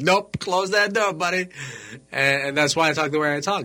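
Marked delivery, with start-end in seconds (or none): 0.0-1.5 high, slow mock dismissal; dismissive gatekeeper. Gatekeeper brushing off the young immigrant, high and slow mock voice. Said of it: "they're like".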